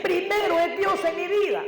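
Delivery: fervent sermon climax; preaching shout. Acted. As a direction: proclaim it to the congregation.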